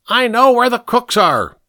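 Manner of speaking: put-on high-pitched boyish yell; screamed. A narrator's reading. Pink held by two men, screaming out his secret. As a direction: cry it out high and urgent. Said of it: "Pink screamed".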